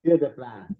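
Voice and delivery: said again, clear and firm; repeated clearly. Real, not acted. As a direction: repeat it so they hear. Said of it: "Can you hear me?".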